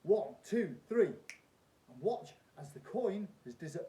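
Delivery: loud, high showman patter; kids party magician. Acted. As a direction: play it big for the crowd. Performs trick as stage magician.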